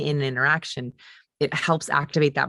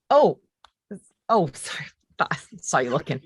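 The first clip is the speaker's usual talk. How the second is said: mock startled apology. Shown as a demonstration. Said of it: "And they do it again".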